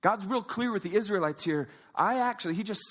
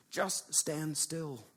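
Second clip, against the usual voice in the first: slow, soft and steady, cutting through panic; calm them down, slowly; calm steady command; 2 semitones lower, 7 dB quieter, much slower than usual. Acted. Moses calming the panicked Israelites, slow and steady. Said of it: "Moses just cuts right through the panic".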